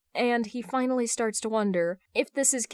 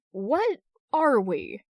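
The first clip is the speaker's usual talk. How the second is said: hesitant question; 3 semitones higher, 4 dB louder, much slower than usual. Acted. Hal voices inner question.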